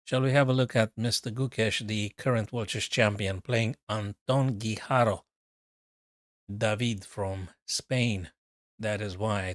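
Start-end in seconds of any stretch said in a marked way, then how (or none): 3.9-5.2 "Anton Guijarro" said as ahn-TON ghee-HAR-o; original Spanish pronunciation. Shown as a demonstration. Commentator introducing a player from Spain, original Spanish pronunciation. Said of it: "original pronunciation".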